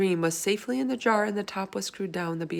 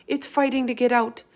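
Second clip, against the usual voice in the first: alarmed; 6 semitones higher, 6 dB louder than usual. Acted. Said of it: "Sophie cried".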